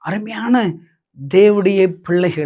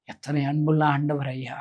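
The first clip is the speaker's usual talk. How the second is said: tender awe; 4 semitones lower, 7 dB quieter than usual. Real, not acted. Tender awe at God's love.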